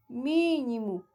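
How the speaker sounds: mínimo with a lengthened first MÍ; stress on MÍ. Shown as a demonstration. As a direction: lean on MÍ at the start of mínimo. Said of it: "Mínimos também está correto". (mínimo alongando o MÍ inicial)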